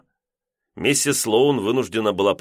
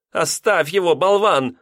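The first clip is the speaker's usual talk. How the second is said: much higher, sharp shout; snapping at husband; 10 semitones higher, 4 dB louder than usual. A narrator's reading. Landlady yelling at her husband, high and sharp. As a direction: bark it at him. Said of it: "прикрикнула на мужа".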